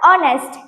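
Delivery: ઓનેસ્ટ said "onest", with no H; silent H. Shown as a demonstration. Teacher demonstrating the article rule, ઓનેસ્ટ with silent H. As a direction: begin ઓનેસ્ટ straight on the O. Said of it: "એચ, મૌન છે".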